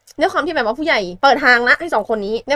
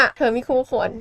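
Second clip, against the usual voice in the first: acted rejection. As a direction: draw it out like a cool brush-off. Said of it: "ผู้ชายบอกว่า".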